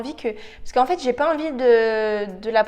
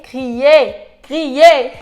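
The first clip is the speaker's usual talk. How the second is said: exasperated shouting; 3 semitones higher, 15 dB louder than usual. Real, not acted. Vlogger fed up with a fiddly eyeliner, exasperated shouting. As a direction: blow up in a loud, comic rant. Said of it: "Ça me donne envie de crier".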